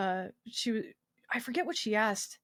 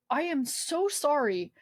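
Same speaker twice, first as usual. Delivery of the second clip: slow, higher, drawn-out apology; earnest apology; 5 semitones higher, slower than usual. Retold or imitated. Patient apologizing to nurses trying not to cry, earnest. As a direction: plead for forgiveness, retold.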